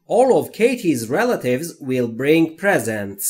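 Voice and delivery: very slow, careful dictation read; each word spaced out and clear; slow model reading. Shown as a demonstration. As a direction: read it slowly for learners to copy. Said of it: "با صدای رسا تکرار کنید".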